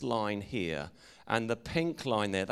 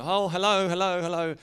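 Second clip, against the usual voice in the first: loud, high friendly hello called out into the dark; 8 semitones higher, 8 dB louder than usual. Retold or imitated. Calling up to the lads at the car park, loud and cheery. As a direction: sing out a cheery greeting from a distance.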